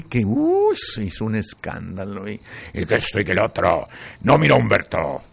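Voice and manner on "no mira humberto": insist, rising in force; emphatic pleading. Retold or imitated. Quoting himself advising Humberto.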